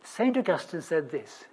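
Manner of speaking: normal talking voice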